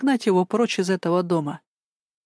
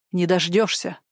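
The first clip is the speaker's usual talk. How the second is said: grumpy. Acted. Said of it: "отозвалась Кира ворчливо".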